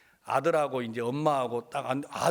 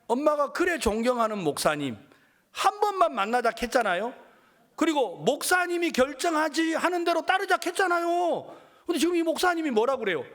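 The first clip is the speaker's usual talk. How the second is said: higher, louder, speeding up at the end; triumphant retort; 10 semitones higher, 3 dB louder than usual. Retold or imitated. Son turning the pastor's words back on his mother, gleeful. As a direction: rub it in, gleeful and vindicated.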